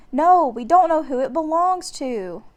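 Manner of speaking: big brother protesting nervously; worried boy. A narrator's reading. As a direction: stop her, worried. Jack protests.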